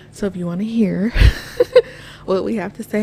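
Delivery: breathless, short of air; out of breath. Real, not acted. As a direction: talk while catching your breath. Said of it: "I'm out of breath".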